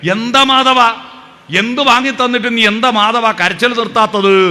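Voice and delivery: put-on annoyed companion scolding the boy; irritated scolding. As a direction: scold the crying kid. Irritated man scolds child.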